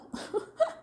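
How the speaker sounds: short high giggle; a quick, soft chuckle; light breathy laugh at own words. Real, not acted. Laughs after her dialect contrast.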